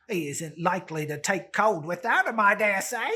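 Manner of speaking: put-on loud, rough old woman cackling over spoils; old charwoman. Old woman gloating to the buyer, loud and coarse. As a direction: crow at the old man like a greedy char.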